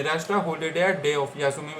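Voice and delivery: Rest a holiday day of यासुमी read out slowly word by word; slow dictation. Shown as a demonstration. Teacher reading the book entry for students, slow. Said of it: "basically छुट्टी के साथ में आता है".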